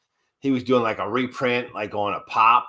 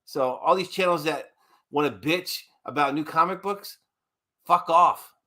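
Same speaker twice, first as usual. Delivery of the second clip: raised-pitch, indignant tirade; annoyed rant; 5 semitones higher than usual. Real, not acted. Co-host telling off rival comic channels, indignant. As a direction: tell the critics off, pitch up. Ranting back at critical channels.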